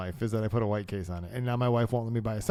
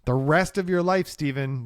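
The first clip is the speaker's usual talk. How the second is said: emphatic quote; 2 semitones higher, slower than usual. Retold or imitated. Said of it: "This is what he said".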